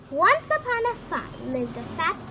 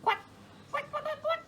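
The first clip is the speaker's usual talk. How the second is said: high, soft duck quacks; 10 semitones higher, 6 dB quieter, faster than usual. Acted. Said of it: "said the duck".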